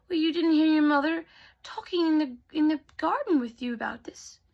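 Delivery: high, lilting storybook godmother voice; kindly fairy godmother. Acted. Teller plays the fairy godmother.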